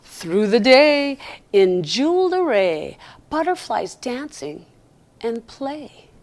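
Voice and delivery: slow, gentle rhyming read; poem reading. Acted. Reads a rhyming poem aloud.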